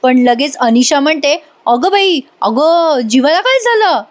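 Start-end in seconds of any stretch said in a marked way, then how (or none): 1.7-4.0 higher-pitched, worked-up reaction; hyper. Retold or imitated. Anisha reacting to news about Jeeva, hyper. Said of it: "एकदम hyper होऊन बोलते ती".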